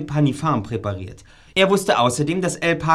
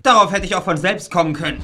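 triumphant shout; 3 semitones higher than usual. Acted. Detective bursts in.

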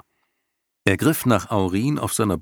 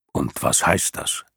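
rumbling lion voice; 4 semitones lower than usual. Acted. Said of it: "grollende Stimme".

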